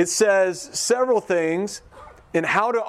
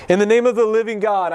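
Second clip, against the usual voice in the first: proclaimed loud; 4 semitones higher, 6 dB louder than usual. Acted. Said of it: "when he stood up and Caiaphas said".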